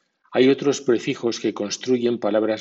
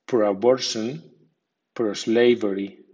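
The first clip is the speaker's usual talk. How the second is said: pro-abortion and pro-slavery with secondary stress on pro; pro-a-BOR-tion, pro-SLA-very; medium stress on prefix. Shown as a demonstration. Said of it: "o con acento medio".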